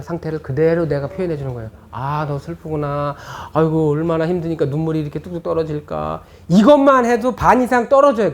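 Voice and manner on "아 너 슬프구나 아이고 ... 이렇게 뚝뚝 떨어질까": put-on mirror the child's sadness tenderly; gentle empathizing. Shown as a demonstration. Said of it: "앵무새 거울 메아리 기법". (아이의 슬픔을 그대로 읽어주는 따뜻한 말투)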